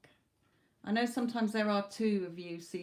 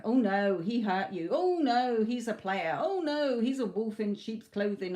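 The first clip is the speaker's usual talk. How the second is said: mock dismay, each "Oh no" punched louder; mock fretting; 5 dB louder than usual. Tarot reader mimicking the client's doubting ego, mock dismay. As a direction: parody a worried inner voice wailing oh no.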